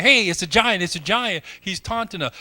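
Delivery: imitating scared soldiers, loud and high; mock panicked shout. Preacher mimics fleeing soldiers, a mock panicked shout. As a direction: cry out like a frightened soldier fleeing. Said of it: "Everybody else is running away saying".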